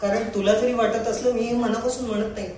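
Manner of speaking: lightly plaintive stage monologue; tearful monologue. Acted. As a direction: perform a heartfelt plea to a beloved, only a touch weepy. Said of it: "थोडा रडका आहे". (किंचित रडवेल्या सुरातील नाट्यमय स्वगत)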